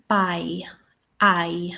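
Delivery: "by", then its glide "I" alone, in RP; RP diphthong. Shown as a demonstration. Teacher modelling RP for learners, "by" and "I" as one glide. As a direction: say "by" and "I" as the king would, in RP. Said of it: "How would the king say this?".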